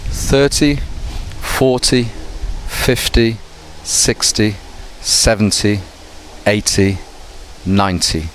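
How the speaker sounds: each ten with the weight on the first syllable; tens stressed first. Shown as a demonstration. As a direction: drill the tens, front stressed. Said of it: "we stress the beginning bit".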